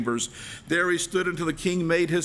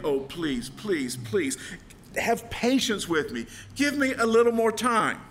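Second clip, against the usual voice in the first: pleading servant; 6 semitones higher than usual. Acted. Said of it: "the servant prayed".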